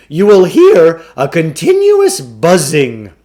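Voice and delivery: a slick con man pitching the deal; booming carnival barker sell; pushy salesman. A narrator's reading. Klugarsh explains the meter.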